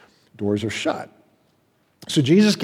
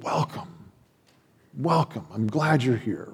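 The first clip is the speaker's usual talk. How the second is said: gentle whispered welcome; 6 dB quieter than usual. Acted. God voiced welcoming believers.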